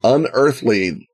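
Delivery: Unearthly drawn out slowly, musing; slow musing repeat. Shown as a demonstration. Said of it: "slow repeat".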